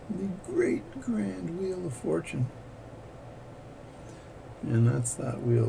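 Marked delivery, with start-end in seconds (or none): 0.1-2.5 game show host. Pretend. Playful grand announcement.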